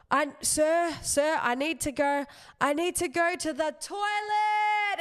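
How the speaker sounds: panicked shout building to a yell; urgent cry for the toilet in front of the class; screaming to go. Retold or imitated. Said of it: "And he's screaming it".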